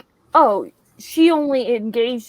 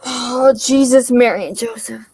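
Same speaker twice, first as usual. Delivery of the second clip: exasperated exclamation; 2 semitones lower, 7 dB louder than usual. Real, not acted. Exasperated outburst at the film.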